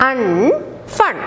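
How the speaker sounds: Un, fun sounded out then blended; phonic sounds. Shown as a demonstration. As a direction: sound it out for the class. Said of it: "How will you read with phonic sound?".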